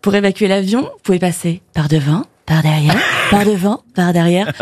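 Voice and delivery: flight attendant. Pretend. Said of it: "les consignes alors que vous donniez".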